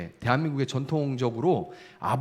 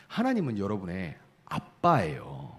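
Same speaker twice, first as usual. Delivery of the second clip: normal talking voice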